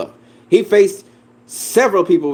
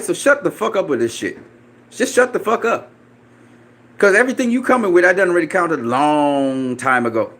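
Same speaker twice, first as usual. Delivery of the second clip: higher, rushed heated retort; getting heated at the chat; worked-up rant; 4 semitones higher than usual. Real, not acted. Ranting at chat.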